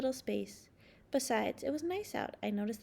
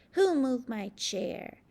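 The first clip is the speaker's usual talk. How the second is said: slow, loud and grumpy; snappy complaint; 7 dB louder, much slower than usual. Acted. The snappy grape grumbling at others, a slow loud gripe. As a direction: drag out the gripe, biting each word.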